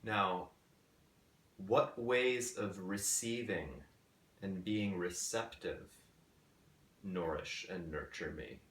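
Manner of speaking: measured questions with long pauses between phrases; guided meditation. Acted. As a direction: pose each question gently, leaving space to reflect. Poses guided meditation questions slowly.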